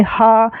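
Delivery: हा said as a clear breathy ha; final haa sound. Shown as a demonstration. Teacher showing the visarga after आ. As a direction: sound हा with a long a. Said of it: "हा का उच्चारण करना है last में".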